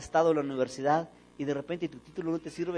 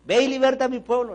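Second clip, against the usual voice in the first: much louder, higher divine command; booming God; 9 semitones higher, 11 dB louder than usual. Retold or imitated. God repeating the order to Moses, booming. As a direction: thunder it out as God.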